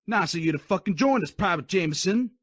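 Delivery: loud sarcastic call-out; sarcastic drill sergeant. Acted. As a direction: call him out mockingly. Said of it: "he called me out".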